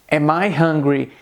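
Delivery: slow "Am I hungry" without a question rise; emphatic inversion. Shown as a demonstration. Teacher shows inversion without slang, as an emphatic statement. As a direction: say "Am I hungry" slowly as an exclamation. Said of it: "eu poderia dizer".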